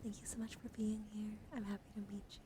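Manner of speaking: soft, tender welcome; sincere thanks. Real, not acted. Streamer welcoming a new follower by name, soft and sincere. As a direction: thank them gently and quietly.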